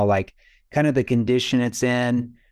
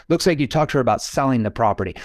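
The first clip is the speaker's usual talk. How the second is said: rushed scripted line; faster than usual. Shown as a demonstration. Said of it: "I didn't say I was gonna sell it".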